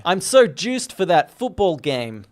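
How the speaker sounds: slow Boston guy voice; Boston accent, slow. Pretend. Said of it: "I was doing a Boston guy with a French mother".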